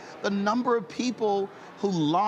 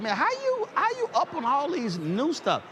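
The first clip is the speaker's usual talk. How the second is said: high, lightly voiced young man asking; a touch of an amazed young fan; curious young brother; 9 semitones higher than usual. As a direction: lift the pitch way up to play the brother. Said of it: "he said".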